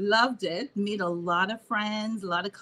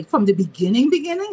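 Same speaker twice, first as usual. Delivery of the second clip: surprised; 3 semitones higher, 7 dB louder, faster than usual. Real, not acted. Guest reacts to big question.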